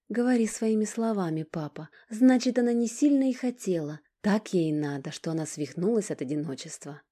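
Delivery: high, loud, furious voice; seething anger. Acted. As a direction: lash out at him in rage. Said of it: "Гнев вскипел в Алине".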